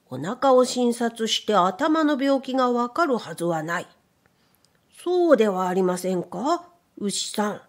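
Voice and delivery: lightly voiced rabbit doctor, aggrieved; rabbit doctor complaining. A narrator's reading. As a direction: protest your innocence to the cow. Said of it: "と言いました".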